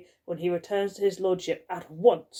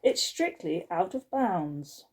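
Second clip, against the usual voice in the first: stern reprimand; 3 semitones higher than usual. Acted. Skullface confronting the girl in the servants' quarters, stern. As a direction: scold the girl like a strict housekeeper. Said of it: "she said at last".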